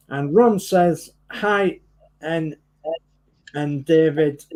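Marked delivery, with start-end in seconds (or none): 1.3-4.4 halting, with stumbles and gaps; real hesitant fumbling between words; tongue-tied. Real, not acted. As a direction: lose your way reading out names. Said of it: "I'm getting tongue-tied".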